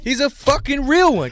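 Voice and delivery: laughing through the words; real laugh while praising him. Real, not acted.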